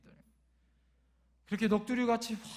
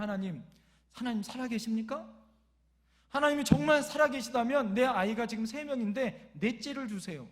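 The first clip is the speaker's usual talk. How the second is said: retold angry challenge, swelling louder midway; defiant prayer; 2 semitones higher, 4 dB louder than usual. Worn-out father challenging God over his hardship, defiant. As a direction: act out a cross demand to heaven. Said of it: "화가 나서 하나님 앞에 반항하듯 기도".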